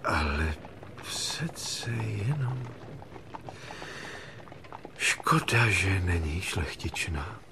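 soft, halting musing; quietly rueful, half to himself; wistful regret. Acted. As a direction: sigh over a lost love, with long pauses. King wistfully regrets lost love.

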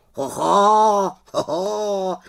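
high raven exclamation; exclaiming raven. Acted. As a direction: call out in surprise as a bird. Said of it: "zvolal Abraxas".

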